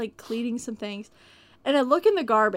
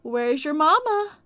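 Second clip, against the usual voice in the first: mock sweet kid-talk; 7 semitones higher than usual. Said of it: "I'm like".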